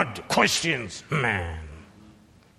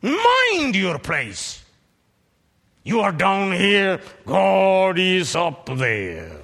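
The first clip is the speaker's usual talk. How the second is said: stern warning; 5 semitones higher, 4 dB louder than usual. Acted. Preacher warns his hearers.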